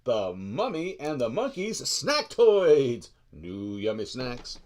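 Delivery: slow, drawn-out show-segment announcement; announcer intro. Acted. Host announcing the snack segment to viewers, slow announcer voice.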